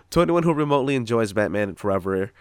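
lightly voiced apologetic director, like a famous singer; a hint of a famous singer's speaking voice; Joel Schumacher. Director apologizing to fans, light impression of a famous singer. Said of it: "I don't know why he sounds like that singer".

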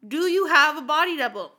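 high, loud posh British queen voice; Queen of England. Acted. Host playing the Queen answering a podcast call. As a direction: put on a grand royal British accent. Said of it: "I'm gonna ask Queen Elizabeth this".

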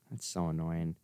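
soft, low sigh through the words. Real, not acted. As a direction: breathe it out wearily. Sighs after losing his thought.

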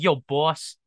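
put-on thick Long Island accent, lightly done. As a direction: say it like a Long Island tough guy. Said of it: "thick, like, Long Island accent".

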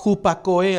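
teacher spelling out hupakoe for note-takers; Greek word pronounced. Shown as a demonstration. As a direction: say hupakoe slowly, as it sounds: u-pa-KO-E. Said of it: "así como suena".

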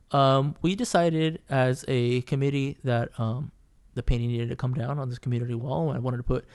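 measured, hesitant retold explanation; really calm. Naked artist explaining the committee decision to the upset painter, really calm. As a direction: imitate someone calmly explaining a decision. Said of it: "he's being really calm".

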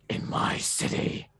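slow rasping voice like gargling glass. Shown as a demonstration. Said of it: "sound like you're gargling glass".

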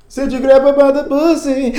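high, loud mock accuser; accusing voice. Accuser confronting the denier, a high loud mock voice.

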